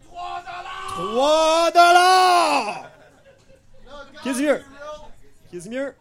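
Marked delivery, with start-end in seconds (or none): 0.1-4.6 loud drawn-out bid call; auctioneer call. Real, not acted. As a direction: belt out the price like an auctioneer. Auctioneer calling out bids. (criant l'enchère à pleine voix)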